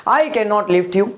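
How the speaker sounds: slow, careful English sentence; slow model sentence. Shown as a demonstration. Teacher models the English sentence slowly for students. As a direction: say each word slowly for the class to copy. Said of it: "तो मैं क्या बोलूंगा?".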